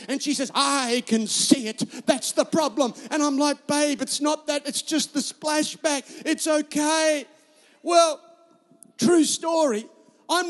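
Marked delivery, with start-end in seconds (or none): 0.5-2.9 slow, emphatic mock Bulgarian retort; Bulgarian-accented wife, insistent. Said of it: "in her little Bulgarian accent". 3.7-7.3 slow, drawn-out exasperated plea; mock husbandly appeal, slowed right down; retold pleading. Husband pleading with upset wife.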